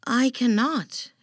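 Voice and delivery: bat explaining. A narrator's reading. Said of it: "explained the bat".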